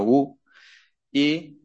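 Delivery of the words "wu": "wu" dicho como una sílaba china, "uu"; pronunciación china. Shown as a demonstration. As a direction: pronuncia "wu" a la china, empezando con u. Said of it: "o en chino". ("wu" con pronunciación china)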